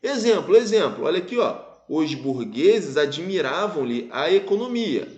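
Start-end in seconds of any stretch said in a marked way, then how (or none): 1.9-5.1 slow, deliberate example reading; measured pausing. Shown as a demonstration. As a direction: read it out slowly up to the pause. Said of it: "Eu pausei".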